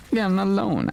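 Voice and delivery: surprised. Real, not acted. Surprised by a sudden enemy.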